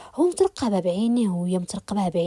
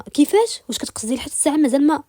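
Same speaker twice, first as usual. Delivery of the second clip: high, louder burst of disbelief; shocked; 6 semitones higher, 4 dB louder than usual. Acted. A man stunned by what his beloved reveals, shocked. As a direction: blurt the question out in shock. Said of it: "تسوى عينيه بصدمة".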